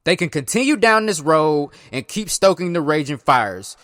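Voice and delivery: reading statements aloud like a news report; measured news-read delivery; news quote read. Acted. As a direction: read the presidents' quotes out steadily.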